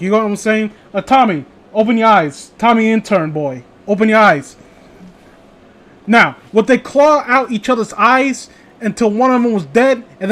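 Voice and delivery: a hint of an unhinged boss; lightly voiced director. Director ranting at the intern, a touch heightened.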